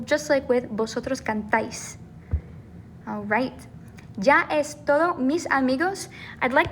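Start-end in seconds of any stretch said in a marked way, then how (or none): 0.7-2.0 "cantáis" with the final syllable stressed, can-TÁIS; stress on accented syllable. Shown as a demonstration. Teacher showing accent-mark stress, TÁIS stressed in "cantáis". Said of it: "we're gonna stress that syllable".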